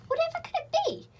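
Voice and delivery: high, nervous little laugh of alarm; scared but half-giggling. A narrator's reading. Children in the night, nervously alarmed.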